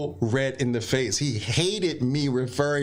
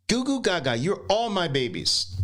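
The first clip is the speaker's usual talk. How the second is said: put-on higher cooing baby talk; 5 semitones higher than usual. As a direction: coo playfully at your babies.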